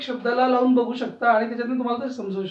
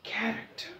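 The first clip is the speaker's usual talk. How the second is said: कॅरेक्टर whispered, rising; कॅरेक्टर as a soft whisper; 12 dB quieter than usual. Shown as a demonstration. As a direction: breathe कॅरेक्टर without voice. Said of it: "पहिल्याला उचल त्याला".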